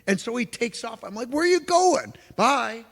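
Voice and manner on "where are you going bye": surprised. Retold or imitated. Friend suddenly jogs off.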